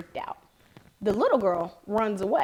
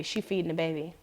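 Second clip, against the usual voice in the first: whispered line; 4 semitones lower, 7 dB quieter than usual. Retold or imitated. Kid's message in whisper.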